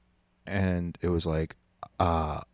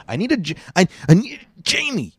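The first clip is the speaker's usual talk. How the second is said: much higher, loud shout for Jamie; loud real yell of a name; calling Jamie; 14 semitones higher, 11 dB louder than usual. Real, not acted. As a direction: holler across the room at Jamie.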